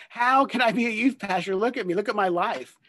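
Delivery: high, loud laughing protest; laughing disbelief. Retold or imitated. Laughing at his own life.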